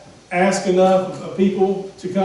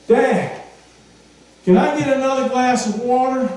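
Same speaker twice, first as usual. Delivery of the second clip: put-on higher, louder child's call; 6 semitones higher, 3 dB louder than usual. Preacher voicing a boy calling his dad once more. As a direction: shout down the stairs like a little boy.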